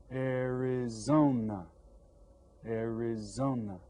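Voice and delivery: slow, stretched syllables; syllables sounded out. Shown as a demonstration. Teacher has class read the state name, syllables stretched. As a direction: draw out "Arizona" syllable by syllable. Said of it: "How many syllables does it have?".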